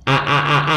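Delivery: short repeated a, as starts octopus; isolated vowel. Shown as a demonstration. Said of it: "One vowel".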